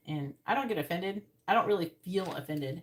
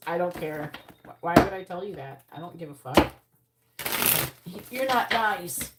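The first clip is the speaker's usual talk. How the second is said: loud, blunt brush-off; blunt retort; 4 dB louder than usual. Retold or imitated. Reader brushing off a pushy man, loud blunt retort. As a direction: shut the man down hard. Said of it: "My response was".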